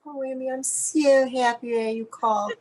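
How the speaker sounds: light, lightly voiced Mel Brooks; a hint of Mel Brooks gushing on the phone; Mel Brooks impression. Imitating Mel Brooks telling Amy he's happy she called. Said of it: "and he always says".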